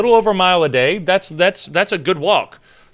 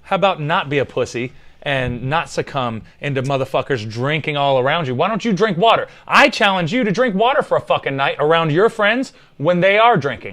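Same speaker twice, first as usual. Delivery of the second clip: wrestling promo. Pretend. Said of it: "I'm just cutting a promo".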